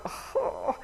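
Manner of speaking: high, airy exasperated "oh"; mock exasperated sigh, pitched high; exasperated groan. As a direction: groan like fed-up kids getting home. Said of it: "come home and go".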